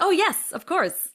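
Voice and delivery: high, loud, drawn-out bluffed assurance; false confidence. Retold or imitated. Auditioner claiming to do impressions, false confidence. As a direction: bluff eagerly, as if sure. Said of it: "with confidence I absolutely didn't have".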